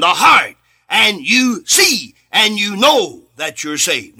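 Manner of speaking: fervent preaching, pressing on blind and heart. Acted. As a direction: build the fire, hammer each phrase to the church. Preaching with rising force.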